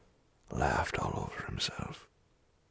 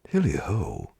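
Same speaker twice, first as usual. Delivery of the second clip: high, loud falling holler; hearty cry; 6 semitones higher, 9 dB louder than usual. A narrator's reading. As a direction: call out lustily across the warehouse. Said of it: "cried old Fezziwig".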